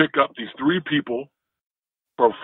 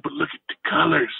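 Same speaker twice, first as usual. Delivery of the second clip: California surfer; 4 semitones higher than usual. Retold or imitated. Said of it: "California-ish surfer guy".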